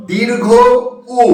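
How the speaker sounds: "দীর্ঘ", a clear pause, then "উ"; correct letter name. Shown as a demonstration. Teacher modelling for students, "দীর্ঘ" and "উ" held apart. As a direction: say "দীর্ঘ উ" as two separate parts. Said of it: "এর উচ্চারণটা করবে কি বলতো".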